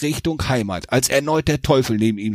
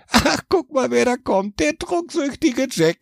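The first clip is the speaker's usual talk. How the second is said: mocking devil; 10 semitones higher than usual. A narrator's reading. Devil mocking Jack at hell's gate. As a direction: taunt the drunk as he arrives.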